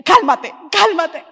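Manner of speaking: loud, high calm-down to herself; telling herself. Retold or imitated. Wife urging herself to trust her husband, loud self-talk. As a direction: shout calm down at yourself. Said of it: "ministrarme a mí misma".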